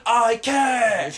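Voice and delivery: high, loud helpless protest; mock whining wail. Host imitates a housebound man answering his partner, mock wail. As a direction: wail it like a put-upon partner.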